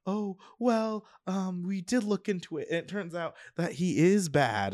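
high-pitched mom voice; imitated mother. Kate's mom explains looking into the swordsman, high imitated mother voice. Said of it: "Kate Bishop's mom is like".

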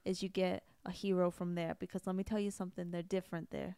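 put-on brash Long Island accent building up; Long Island accent, worked up about Staten Island. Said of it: "Long Island voice".

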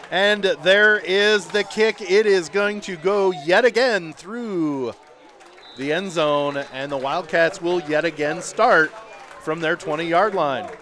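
drawn-out, slow call as the kick flies; play-by-play kickoff call. Real, not acted. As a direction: stretch the words with the flight of the ball.

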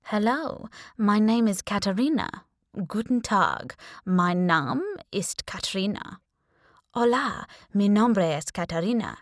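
lightly put-on demure mingler voice, trying out languages; a touch of a posh party guest introducing herself; mock classy introduction. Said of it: "extending a demure hand like I imagined classy minglers did".

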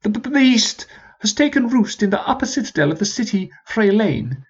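a high, formal commanding officer; rally the troops like an old sergeant; sergeant's voice. Acted.

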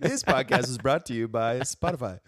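playful sponsor announcement; mock ad read. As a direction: read it like a podcast commercial. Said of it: "commercial break".

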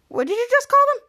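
high, loud outraged squeal; Ray offended over his anti-aging cream. Retold or imitated. High, loud offended squeal.

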